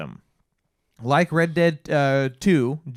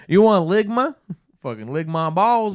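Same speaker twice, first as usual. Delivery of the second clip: mocking taunt; 8 semitones higher, 6 dB louder than usual. Mock insulting NPC voice.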